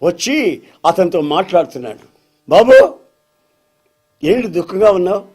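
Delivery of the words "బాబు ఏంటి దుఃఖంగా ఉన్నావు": lightly voiced concerned Jesus; Jesus asking. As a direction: voice Jesus reaching out to a grieving man. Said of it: "అని అడిగాడు".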